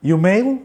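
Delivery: "You mail" with "your" clipped to "yo", rising like a question; reduced "your". Retold or imitated. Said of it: "Your"ని".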